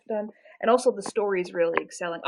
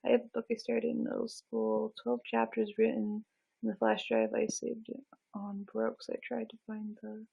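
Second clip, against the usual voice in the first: higher, softer reading voice; reading aloud; 4 semitones higher, 6 dB quieter than usual. Real, not acted. Streamer reading a viewer's message about a lost book, reading aloud. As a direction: read a comment out softly, pitch lifted.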